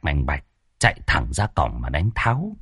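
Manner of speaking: plain reading voice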